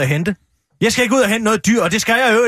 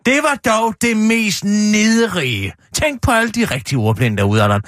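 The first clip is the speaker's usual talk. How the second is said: mock outrage; slower than usual.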